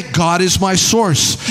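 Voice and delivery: slow, deliberate, every word weighed; slow declaration. Acted. Pastor answers the worried doubter, slowly and firmly.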